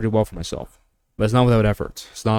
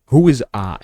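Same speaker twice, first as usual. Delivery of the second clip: ordinary talk, nothing marked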